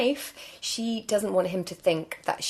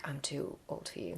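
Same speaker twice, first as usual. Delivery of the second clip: whispered aside; 5 semitones lower, 13 dB quieter than usual. Retold or imitated. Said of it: "I was just like".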